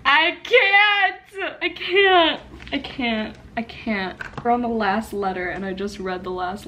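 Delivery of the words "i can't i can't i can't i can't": starts up, sinks to a near-murmur; fading despair. Real, not acted. Overwhelmed by the ending.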